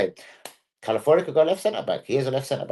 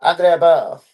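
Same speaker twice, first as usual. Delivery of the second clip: hammed-up Italian name, high and loud; fake Italian accent; 4 semitones higher, 6 dB louder than usual. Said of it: "sorry, fake Italian accent".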